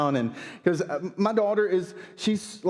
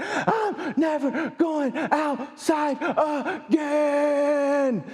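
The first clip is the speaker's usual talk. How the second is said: put-on much higher, fast whiny child voice with a laugh; scared little girl; 8 semitones higher, much slower than usual. Daughter to dad in the car, high whiny child voice. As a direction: wail it like a frightened five-year-old.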